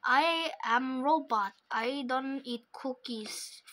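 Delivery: slow, deliberate robot talk. Pretend. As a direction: spell it out like a stiff machine. Robot insists again.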